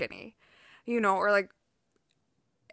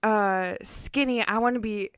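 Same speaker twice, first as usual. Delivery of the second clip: put-on thick Russian accent, getting louder; 6 dB louder, slower than usual. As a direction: quote it in a heavy Russian accent. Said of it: "the thick Russian accent".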